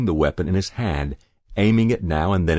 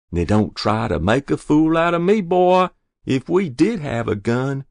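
high, loud scolding; rebuking; 8 semitones higher, 5 dB louder than usual. A narrator's reading. Mother seeing through her son, rebuking. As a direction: warn him not to fool you.

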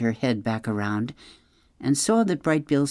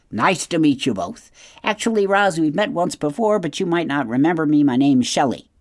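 chatty otter, a bit higher and livelier; lively animal character greeting; friendly otter; 5 semitones higher, 5 dB louder than usual. A narrator's reading. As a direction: introduce yourself as a sociable big otter.

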